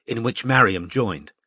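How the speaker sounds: usual speaking voice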